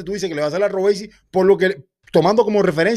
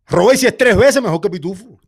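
louder, laughing as he repeats it; laughing insistence; 5 dB louder than usual. Real, not acted. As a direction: push the point through a laugh. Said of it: "Pero, hermano".

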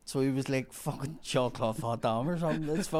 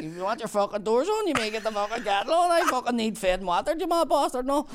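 higher, louder cheeky demand; cheeky workman; 9 semitones higher, 3 dB louder than usual. Retold or imitated. Bumper demanding the customer feed the workmen: brash high cheeky demand. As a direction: play a brash chancer ordering her about.

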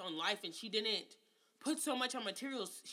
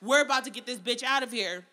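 mock celebrating; 8 dB louder than usual. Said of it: "It was like".

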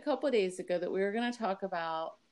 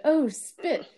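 quoting the lady; 8 semitones higher, 6 dB louder than usual. Retold or imitated. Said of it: "She said".

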